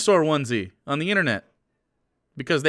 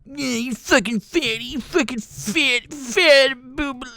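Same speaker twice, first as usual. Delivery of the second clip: high, slow, hammed-up whiny troll; mock chat troll, high and slow; 12 semitones higher, slower than usual. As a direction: imitate a sneering chatter, drawn out and high. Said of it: "in my chat going".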